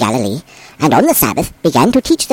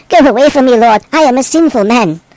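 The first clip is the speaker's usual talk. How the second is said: pleading confession; 6 semitones higher, 3 dB louder than usual. A narrator's reading. Penitent man acted in scripture reading.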